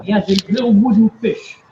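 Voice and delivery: muffled, far-off mic. Real, not acted. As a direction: voice through a bad mic. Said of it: "he sound muffled".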